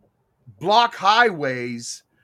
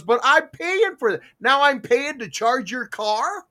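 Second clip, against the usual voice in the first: higher-pitched mock disbelief, slowing at the end; retold incredulous objection; 5 semitones higher than usual. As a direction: imitate an owner who can't believe the cheek. Acting out owner's incredulous objection.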